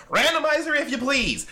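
booming game show host summons; grand announcer call. Acted. Host calls the randomizer.

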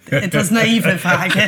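laughing. Real, not acted. Laughs at own question.

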